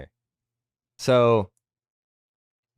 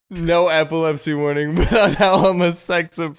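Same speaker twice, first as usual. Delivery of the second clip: laughing retelling; 5 semitones higher, 4 dB louder than usual. Retold or imitated. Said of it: "that's why that made me laugh so hard".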